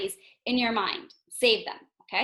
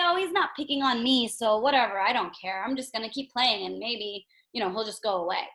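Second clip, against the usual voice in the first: indifferent; 3 semitones lower than usual. Acted. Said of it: "just ignore it and keep playing".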